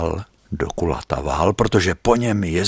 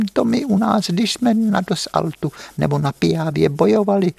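put-on much higher, thin little voice of an old veteran; high-voiced old legionnaire; 13 semitones higher, 3 dB louder than usual. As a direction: squeak it out like the frail old legionnaire. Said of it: "mluvil takovým vysokým hláskem". (vysoký tenký hlásek starého legionáře)

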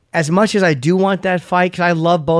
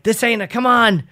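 re-enacting a failed crowd hype, higher voice; retold hype-man pitch; 5 semitones higher than usual. Clumsy hype man to concert crowd, retold hype. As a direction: imitate yourself trying to pump up a crowd. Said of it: "trying to get the crowd hyped up".

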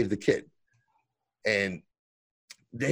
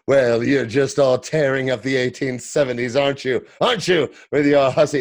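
catty Rip; 2 semitones higher, 6 dB louder than usual. Retold or imitated. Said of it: "he does say".

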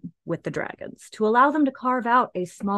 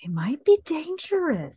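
high unvoiced whisper; giant whisper; 10 semitones higher than usual. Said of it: "I like your giant voice".

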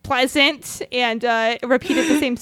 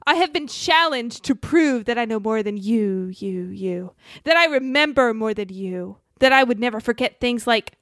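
mad scientist. Acted. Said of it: "that's creepy".

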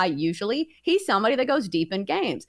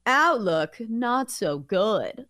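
magic eight ball voice; much slower than usual. Pretend. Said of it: "eight ball says".

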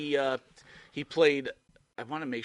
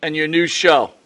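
speaking loud; 4 semitones higher, 16 dB louder than usual. Real, not acted. Host loudly asking the guest to announce his new show. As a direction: project every word to the guest. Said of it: "we need to speak loud".

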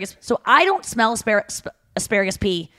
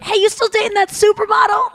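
calling out across the street; shouted greeting; 11 semitones higher, 4 dB louder than usual. Retold or imitated. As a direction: yell it friendly from the corner. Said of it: "they're like".

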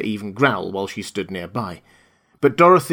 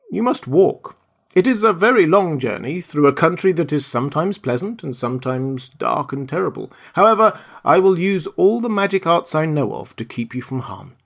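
put-on lightly raised old lady voice, grave then reassuring; kindly witch, solemn warning; 6 semitones higher, 3 dB louder than usual. Witch of the North warns Dorothy of the journey, lightly voiced kindly old woman. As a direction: warn her of the dark road, then promise protection.

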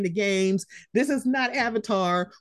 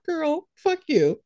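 exasperated; 6 semitones higher, slower than usual. Real, not acted. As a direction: drag it out in disbelief. Repeated exasperated retort.

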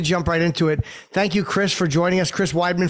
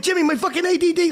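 mock Matt complaint; 12 semitones higher, faster than usual. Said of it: "you would have said".

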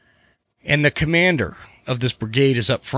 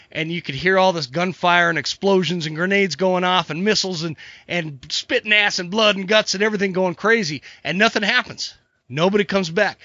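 higher-pitched, building battle tale; dramatic story narration; 5 semitones higher than usual. Acted. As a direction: tell it like an escalating war story. Tells battle joke.

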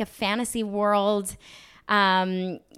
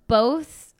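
a breathy mock-secret whisper; 4 semitones higher, 7 dB louder than usual. Actress teasing her new horror films, whispered. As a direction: whisper it like a spoiler. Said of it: "oh, I'm afraid".

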